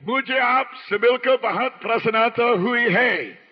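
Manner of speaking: Hindustani phrase. Shown as a demonstration. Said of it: "Those words were the words of an actual language".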